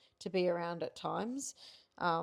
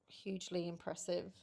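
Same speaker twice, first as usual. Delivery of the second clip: whispered; 7 dB quieter than usual. Real, not acted. Praising partner, soft.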